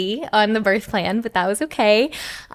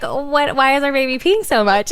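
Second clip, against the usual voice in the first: husband's surprise; 5 semitones higher, 5 dB louder than usual. Retold or imitated. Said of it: "he was like".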